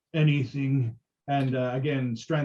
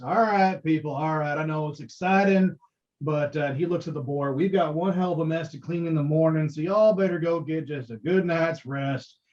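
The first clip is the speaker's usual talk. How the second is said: herding the crowd. Acted. Sildar shooing the crowd off.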